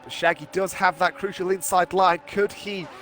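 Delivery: motorsport commentator. Acted. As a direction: lively race play-by-play. Live play-by-play commentary.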